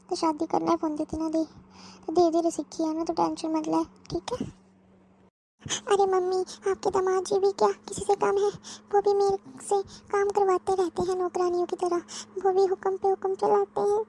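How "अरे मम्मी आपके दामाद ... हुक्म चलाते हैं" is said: high, crying complaint about the husband; tearful complaint. Acted. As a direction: whine it out, breaking into tears at the end. (पति की शिकायत करते हुए रोना)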